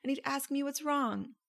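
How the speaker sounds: high, soft, pleading voice, imitating a hurt listener; imitating a hurt client, soft and plaintive; mock whiny client. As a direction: play the hurt wife, small and high. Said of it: "And so then you'll go".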